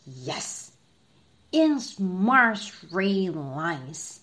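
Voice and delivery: slow soldierly answer; general's voice. Acted. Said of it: "said the general".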